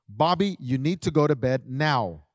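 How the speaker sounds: steady, firm, without anger; firm instruction. Shown as a demonstration. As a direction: give the order plainly and decisively. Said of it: "That's how you need to word it".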